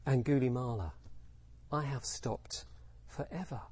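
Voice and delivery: softly spoken, with long pauses; calm, grave answer. Acted. Buddha to Angulimala on forswearing violence, calm and grave. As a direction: explain it gently and with certainty.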